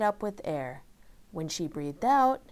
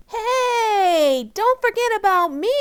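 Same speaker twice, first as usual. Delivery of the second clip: loud high angry shout; 14 semitones higher, 9 dB louder than usual. Acted. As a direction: yell it out, demanding attention. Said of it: "shouted Amy".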